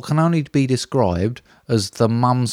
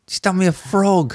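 gasp, then much higher with real delight; 8 semitones higher than usual. Real, not acted. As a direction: gasp with joy at the gift. Unwrapping a crocheted gift.

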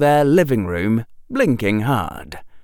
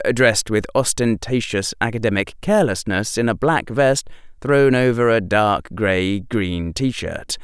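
plain reading voice

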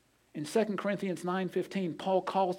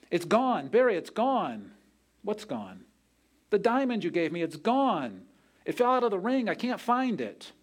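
distressed; 5 semitones higher than usual. Retold or imitated. Wife panics over lost diamond.

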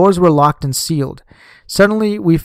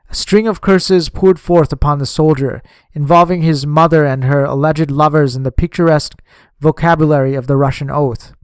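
ordinary delivery, nothing marked

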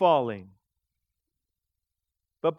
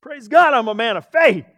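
louder, proud self-congratulation; self-satisfied thinking; 6 dB louder than usual. Retold or imitated. Preacher imitating his own proud thoughts, loud and smug. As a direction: act out puffed-up pride. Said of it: "I'll just start thinking".

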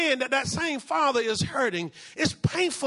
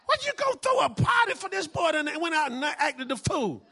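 raised, sharp complaint at the father; indignant protest; 5 semitones higher than usual. Acted. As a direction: play the resentful brother. Jealous brother objects to party.

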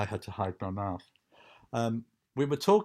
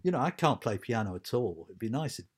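light Liverpool lilt as the guitarist; a hint of Scouse in the voice; the guitarist's accent. Musician telling the piano teacher, in a light Liverpool accent. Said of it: "I'm trying to do the guitarist's accent".

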